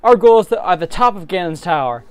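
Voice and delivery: rally the crew eagerly; eager pitch. Acted. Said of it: "Link, eager to join in".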